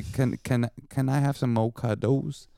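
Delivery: CUDDLES ending in a long "doze"; mock plea with CUDDLES said as "cuh-dohz"; imitating wife's pronunciation. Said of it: "you know how you say that".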